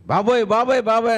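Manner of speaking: high, loud panicked cry; mock mother's panicked wail; alarmed wail. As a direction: shriek at the swapped baby. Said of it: "అంటది".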